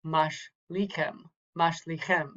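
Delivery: "Mashlichem" sounded out with the weight on "chem"; final-syllable stress. Shown as a demonstration. Teacher modelling Hebrew accent, "Mashlichem" stressed at the end. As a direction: lean on the last syllable of "Mashlichem". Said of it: "on the last syllable".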